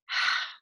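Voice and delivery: easy relaxed exhale; contented sigh. Shown as a demonstration. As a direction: breathe out pleased. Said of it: "sense of contentment".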